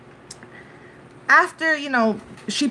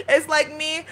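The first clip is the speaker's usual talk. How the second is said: laughing; 5 semitones higher than usual. Real, not acted. Laughing while setting up joke.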